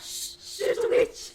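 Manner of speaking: hoarse scared whisper. Acted. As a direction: whisper it in a panic. Player whispering in fear.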